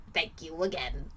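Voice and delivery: put-on British accent, winding down. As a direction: sign off in a mock British accent. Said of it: "I do my British accent".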